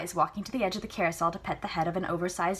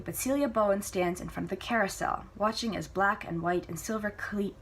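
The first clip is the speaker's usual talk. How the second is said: ordinary delivery, nothing marked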